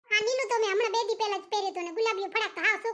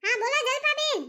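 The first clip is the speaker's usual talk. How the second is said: calling out; 4 semitones higher, 4 dB louder than usual. Acted. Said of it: "નીચે ઊભા ઊભા રાડો પાડો છો".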